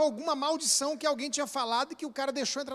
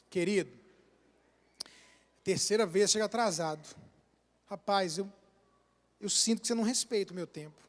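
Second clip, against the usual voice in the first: gentle correction; 5 semitones lower, 6 dB quieter than usual. Shown as a demonstration. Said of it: "Agora aqui, o cara chegou".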